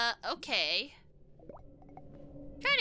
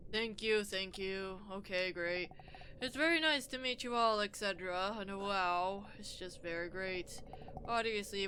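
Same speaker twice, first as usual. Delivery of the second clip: lightly voiced weary king; low, quiet nervous ruler; tense king; 3 semitones lower, 4 dB quieter than usual. Voicing the king character.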